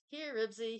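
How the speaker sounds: eager call to the dog. A narrator's reading. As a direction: call the dog over from across the stage. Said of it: "he called".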